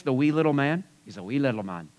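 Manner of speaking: lightly put-on Irish accent; a touch of Irish lilt. Shown as a demonstration. Preacher naming Zacchaeus as a wee little man, light Irish accent. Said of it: "I always say it in an Irish accent".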